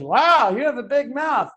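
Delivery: mock astonishment, a big loud wow; amazed dentist. Dentist looking into the boy's wide mouth, mock-amazed voice. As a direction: imitate a dentist's surprise, voice swooping up. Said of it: "And he goes".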